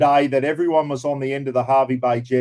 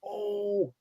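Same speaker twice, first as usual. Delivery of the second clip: a held-breath whispered oh; hushed gasp of suspense; breathless whisper; 4 semitones higher, 12 dB quieter than usual. Real, not acted. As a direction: whisper it while the winner is drawn. Tense moment before naming the winner.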